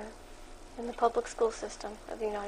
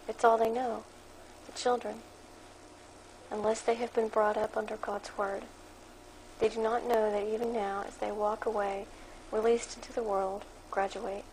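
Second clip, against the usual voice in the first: flat, even voice reading a blog aloud; monotone reading. Real, not acted. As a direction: read it off the page in a monotone. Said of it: "That explains my monotone voice here".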